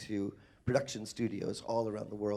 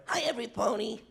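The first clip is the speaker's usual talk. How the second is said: playful greeting; 10 semitones higher than usual. Acted. Greeting the brony crowd playfully.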